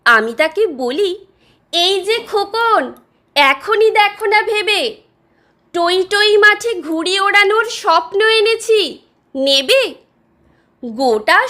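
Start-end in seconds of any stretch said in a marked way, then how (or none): 1.7-9.9 higher-pitched, coaxing street-seller's offer; peddler's call. Acted. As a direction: call out to a child to tempt him. Dream peddler calls to lonely boy. (ফেরিওয়ালার ডাক)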